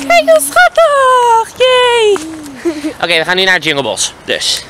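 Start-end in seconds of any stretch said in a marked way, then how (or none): 0.1-2.2 very high, slow gushing squeal; cooing. Real, not acted. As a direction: gush over something adorable, way up high. Cooing over a hug.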